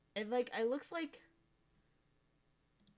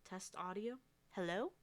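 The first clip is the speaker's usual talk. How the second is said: quiet, muffled mic test; muffled, as if through a wall; 7 dB quieter than usual. Real, not acted. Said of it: "I do sound really muffled".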